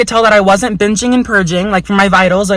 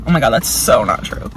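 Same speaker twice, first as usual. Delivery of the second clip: deep mock voice; 10 semitones lower, 5 dB quieter than usual. Real, not acted. Second self-correction, voice dropped low.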